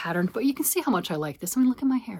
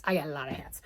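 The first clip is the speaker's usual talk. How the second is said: whisper; 5 semitones lower, 7 dB quieter, faster than usual. Real, not acted. Gloating aside to viewer.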